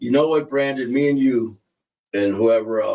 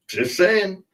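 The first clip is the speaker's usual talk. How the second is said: pitched way up on saying; high sing-song repeat; 10 semitones higher than usual. Shown as a demonstration. Repeating the joke to viewers, pitched way up. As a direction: toss it off in a high teasing tone.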